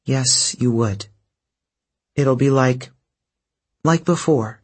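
calm him though it costs you; gentle forced comfort; forced assurance. Acted. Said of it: "She forced an assuring tone".

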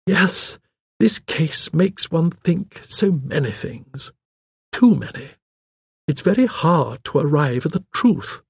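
put-on genteel elderly voice, drawing out words; old lady gossip. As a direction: reminisce about village wrongdoings, ruefully.

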